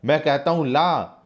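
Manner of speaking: acted shout at the servant. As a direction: yell the command. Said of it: "Guman Singh चीख कर कहता है".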